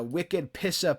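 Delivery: attempted Boston accent, dropped R; lightly put-on Boston slang accent. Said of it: "that accent is a tough accent".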